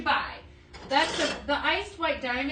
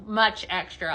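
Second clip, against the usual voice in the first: normal talking voice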